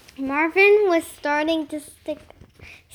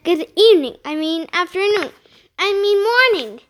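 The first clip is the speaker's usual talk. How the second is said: flustered teacher; 4 semitones higher, 5 dB louder, faster than usual. Acted. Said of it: "Miss Greep said".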